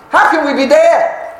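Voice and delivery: high, incredulous outcry; surprised protest. Acted. Church members objecting to being called dead, high disbelief. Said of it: "they would have been surprised".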